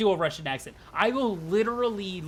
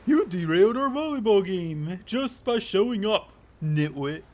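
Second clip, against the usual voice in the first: put-on voice for an annoyed character; lightly voiced irritated killer; scolding game character; 5 dB louder, slower than usual.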